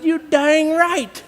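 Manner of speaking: high, slow, drawled-out brag; proud confirmation. Retold or imitated. Roper answers his doubting friend, proud confirmation. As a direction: stretch it out with swagger.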